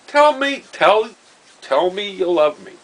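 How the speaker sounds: high and loud, pushing harder each time; loud mock insistence; insistent teasing demand. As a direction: keep demanding it like a gleeful prankster. Ted repeating his demand insistently.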